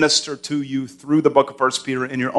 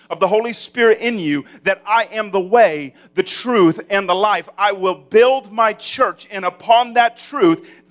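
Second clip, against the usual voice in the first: preaching at full force; 6 semitones higher than usual. Acted. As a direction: proclaim it like a pulpit climax. Preaching builds up.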